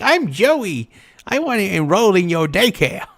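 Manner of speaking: high, put-on little kid voice; a grown man squeaking like a child; childish kid voice. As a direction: play a kid enrolling himself at daycare. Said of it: "be like".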